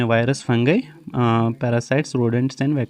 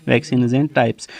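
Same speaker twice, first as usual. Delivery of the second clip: slow summary; much slower than usual. Shown as a demonstration. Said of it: "बस".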